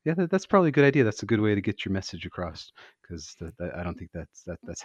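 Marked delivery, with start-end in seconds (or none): 0.0-2.7 louder, hurried pretend endorsement; mock agreement. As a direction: pretend to cheer it on. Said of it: "I can't be like".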